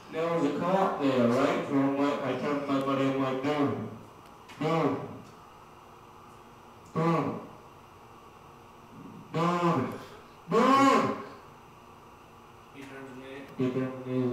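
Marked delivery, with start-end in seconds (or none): 3.4-11.2 repeated dudes rising to a shout; building dude. Retold or imitated. Nudging his buddy, building to a shout.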